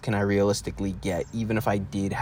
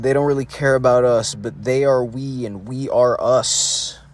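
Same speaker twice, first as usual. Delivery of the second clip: quoting a singer; 2 semitones higher, 5 dB louder than usual. Retold or imitated. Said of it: "Like a singer said".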